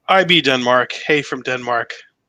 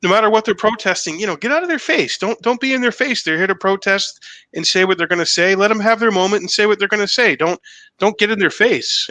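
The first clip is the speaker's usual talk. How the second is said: lightly raised, earnest voice; pleading with protesters to back off, lifted a little; quoting a singer; 6 semitones higher than usual. Retold or imitated. A singer telling men to back off the ladies, slightly raised. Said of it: "A singer was like".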